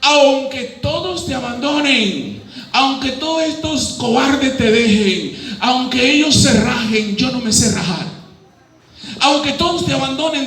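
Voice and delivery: lightly voiced brash Peter swearing loyalty; a hint of a boastful fisherman. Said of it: "era un hombre bocón ... y dice".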